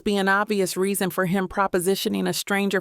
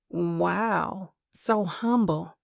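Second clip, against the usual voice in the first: slow, dripping sarcasm; sarcastic; 3 dB quieter, much slower than usual. Acted. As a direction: drawl it out sarcastically. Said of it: "my words dripping in sarcasm".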